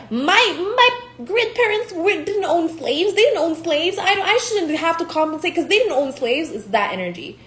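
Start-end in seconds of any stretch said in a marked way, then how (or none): 0.1-6.5 mocking white people. Mocking defensive white people denying slavery guilt, high whiny voice. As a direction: whine it defensively, higher. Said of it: "these white people, right, who are like".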